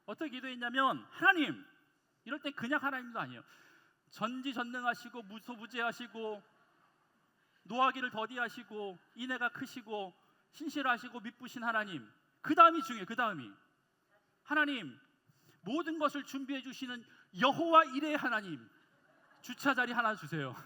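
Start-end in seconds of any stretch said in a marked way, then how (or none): 1.1-1.6 loud, higher-energy call to God; fervent prayer cry. Retold or imitated. Young preacher calling on God for parking, fervent cry. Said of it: "빡시게 했어요". 4.1-12.1 imitated earnest prayer, measured phrase by phrase; fervent prayer. Reenacting his own nightly plea to God, fervent prayer. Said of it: "빡시게 했어요". 14.4-20.5 loud, imploring imitation of prayer; earnest pleading prayer. Young man begging God for a parking spot, earnest prayer. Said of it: "얼마나 간절하게 기도했는데요".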